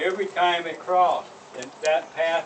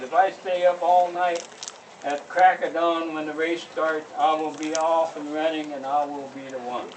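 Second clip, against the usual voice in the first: higher, loud eager coyote; 4 semitones higher, 6 dB louder than usual. Acted. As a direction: plot it out with eager glee. Coyote scheming in story.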